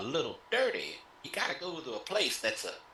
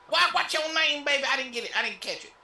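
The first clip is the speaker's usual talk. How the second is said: high flirty pimp host; 6 semitones higher, 4 dB louder than usual. Acted.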